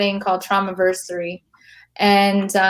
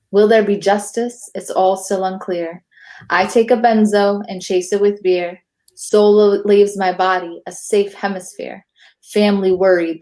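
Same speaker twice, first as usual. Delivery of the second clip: poem recital. Acted. Poet reads her own poem to the hosts, measured recital. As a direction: let each rhyme land like a verse.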